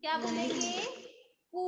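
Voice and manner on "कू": "कु" drawn out as kooo; long vowel. Shown as a demonstration. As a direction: hold the u in "कु" long. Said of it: "लंबा हो रहा है ना".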